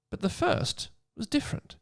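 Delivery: hushed whisper; whispered hint. Acted. Reading aloud, Hermione teases the boys in a whisper. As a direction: lean in and whisper it. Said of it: "said Hermione".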